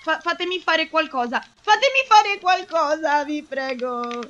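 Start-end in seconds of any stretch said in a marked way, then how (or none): 1.6-4.2 stretched, whining entreaty; desperate pleading. Real, not acted. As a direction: drag it out as a helpless plea. Helpless player begs the game.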